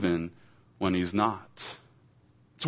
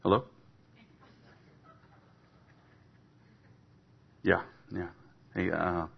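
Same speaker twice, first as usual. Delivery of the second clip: dodging a caller; 6 semitones lower, 6 dB quieter, faster than usual. Acted. Staged phone call mid-sermon.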